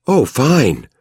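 high, bitter sarcastic jab; bitter sarcasm. A narrator's reading. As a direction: sneer it with bitterness. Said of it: "with embittered sarcasm".

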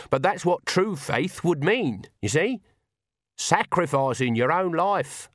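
put-on fervent old witch laying down her creed; impassioned Granny. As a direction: hammer out what true faith demands. Granny preaches true faith.

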